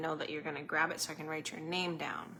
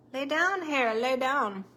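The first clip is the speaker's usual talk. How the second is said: higher, louder order to the dog; firm dog command; 6 semitones higher, 6 dB louder, slower than usual. Real, not acted. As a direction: tell the dog to lie down, firmly. Telling her dog to lie.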